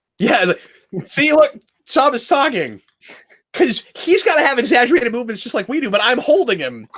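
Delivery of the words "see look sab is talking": worst, very bad British accent. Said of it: "with the worst British accent in the history of bad British accents".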